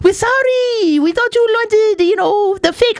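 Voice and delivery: high, slowed sheepish apology; apologetic vendor voice. Retold or imitated. Vendor apologizing for the fakes, a high sheepish voice. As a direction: squirm out of it. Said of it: "he goes".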